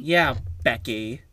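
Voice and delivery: put-on slow drawn-out Valley Girl. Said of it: "I was not expecting to hear you do a Valley Girl voice".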